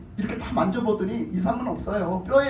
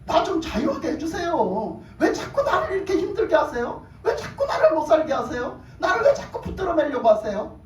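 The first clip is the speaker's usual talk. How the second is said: raised-pitch protest to God; pleading complaint; 5 semitones higher than usual. Acted. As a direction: voice a believer's exasperated plea for freedom. Acts out believers complaining to God. (하나님께 따지듯 높은 목소리로 하소연)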